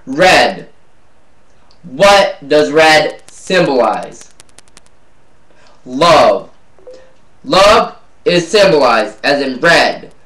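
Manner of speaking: measured spoken-word recital with long pauses; slam poetry. Acted. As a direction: let each "love" land alone, falling. Recites own slam poem.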